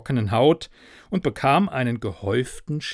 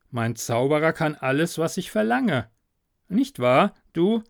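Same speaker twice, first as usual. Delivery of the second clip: sly little Klaus; 3 semitones higher than usual. Acted. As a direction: coax the sack with playful cunning. Klaus voicing sly trickster.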